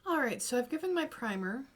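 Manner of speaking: talking around a vape; vape in mouth. Real, not acted. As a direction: speak with a vape at your lips. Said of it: "excuse the vape".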